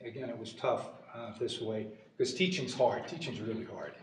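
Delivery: holding back emotion mid-story; a touch choked up, halting; a little choked up. Real, not acted. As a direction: push on through a lump in the throat. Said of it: "I'm getting a little choked up".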